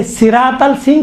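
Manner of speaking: السین version of صراط with a plain s; pronounced with seen. Shown as a demonstration. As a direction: say صراط with a light seen sound at the start. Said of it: "سین کے ساتھ بھی صحیح ہے".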